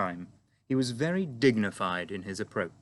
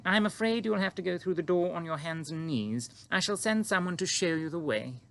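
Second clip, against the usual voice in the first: Queen greeting the giant calmly; composed Queen; 8 semitones higher than usual. A narrator's reading. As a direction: stay perfectly poised, royal. Queen voiced in story.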